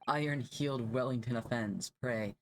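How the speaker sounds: dramatic. Acted. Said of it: "You did not need to be that dramatic".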